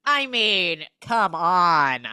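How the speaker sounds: loud, emphatic disbelief; real exasperation. Real, not acted. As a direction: call it out, incredulous. Host exasperated at the innuendo.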